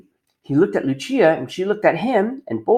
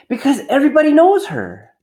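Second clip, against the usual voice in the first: higher, matter-of-fact lady; mayor's wife answering; 10 semitones higher, 4 dB louder than usual. Acted. Mayor's wife answering Punchinello, higher and obvious.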